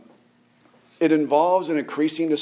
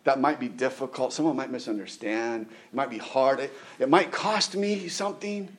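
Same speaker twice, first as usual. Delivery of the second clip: softer, hedging excuses; reluctant flesh; 5 dB quieter than usual. Acted. Preacher voicing the flesh resisting the spirit, hesitant and soft. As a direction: play the flesh quietly making excuses. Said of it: "My flesh is saying".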